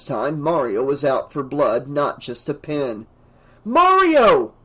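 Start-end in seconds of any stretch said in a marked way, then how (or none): 3.6-4.5 loud, high yell of a name. A narrator's reading. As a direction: shout him down from afar. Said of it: "Keith yelled".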